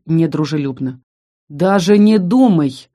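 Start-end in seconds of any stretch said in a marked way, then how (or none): 1.5-2.9 slow, firm, louder warning; stern warning. Acted. Heroine warns the hostile monster off. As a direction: lay down the law slowly. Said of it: "предусмотрительно произнесла я".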